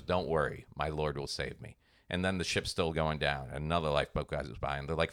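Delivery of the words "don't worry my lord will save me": lower, softer, serenely confident preacher; lightly voiced pious preacher, sure of rescue; calm preacher. Preacher refusing the lifeboat, told in a joke, softly serene.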